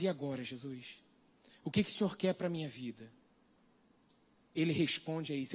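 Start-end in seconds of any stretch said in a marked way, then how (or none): 0.0-3.1 softer, inward plea in secret; quiet private prayer. Retold or imitated. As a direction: pray it softly to yourself.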